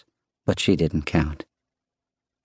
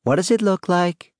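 high, smiling question called upstairs; 12 semitones higher than usual. A narrator's reading. Wife humouring husband about the scarf, smiling. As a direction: humour him with a smile.

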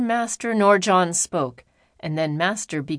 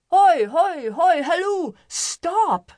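crying out; 9 semitones higher, slower than usual. A narrator's reading. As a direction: yell to stop the cart before the bridge. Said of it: "he cried".

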